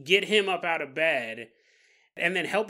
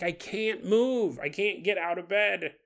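whiny dad. Retold or imitated. Dad pleading he can't move.

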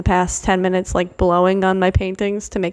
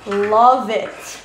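gushing; 5 dB louder, much slower than usual. Real, not acted. Loud gushing over painting.

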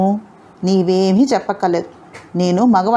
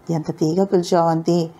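a soft, dreamy, lightly lowered line; dreamily enchanted; 3 semitones lower, 3 dB quieter than usual. Acted. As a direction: swoon over her name as if entranced. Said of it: "మైమర్చిపోయినట్టుగా ముఖం పెట్టన్నాడు ఇందర్". (మైమరచిపోయినట్టు మెత్తగా)

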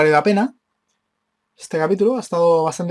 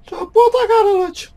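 shouting; 6 dB louder than usual. Real, not acted. Gamer yelling at screen character.

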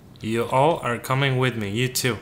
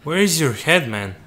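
surprised; 3 semitones higher, 4 dB louder than usual. Real, not acted. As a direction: react in shock at the headless guy. Crewmate suddenly headless.

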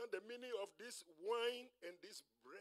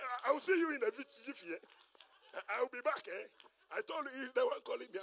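hurried goodbye; 5 semitones higher, 6 dB louder than usual. Acted. Lazarus calls hurried goodbye, leaving.

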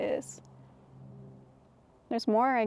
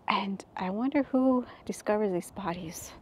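soft unvoiced whisper; 6 dB quieter than usual. Real, not acted. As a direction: hush it like a secret. Eerie musing in a cave.

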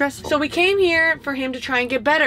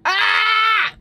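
higher, drawn-out exasperated ugh then a yelp; fed-up cry into the camera; frustrated outburst; 9 semitones higher, 4 dB louder, much slower than usual. Real, not acted. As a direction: burst with real frustration. Venting, bursts out.

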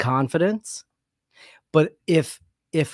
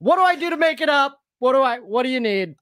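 much higher, louder mock desperation; mock pleading; 11 semitones higher, 4 dB louder than usual. Pretending to bomb, begging the crowd in mock panic. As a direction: beg the audience, hammed-up. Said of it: "I'll just start crying".

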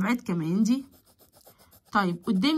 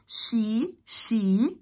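whisper. Real, not acted. Teacher prompts students.

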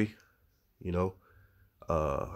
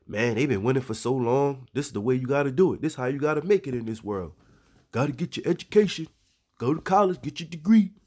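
mocking the worldly motto; 4 semitones higher than usual. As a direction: parrot the world's hustle talk, pitch rising as it goes. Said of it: "But their motto is".

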